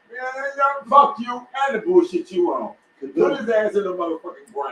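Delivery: fed-up veteran cursing; angry soldier. Retold or imitated.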